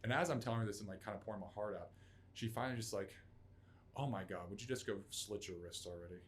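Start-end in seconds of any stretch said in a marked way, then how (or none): 4.0-6.2 retold deadpan dismissal. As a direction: imitate someone coldly fed up. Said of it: "she starts to go deadpan".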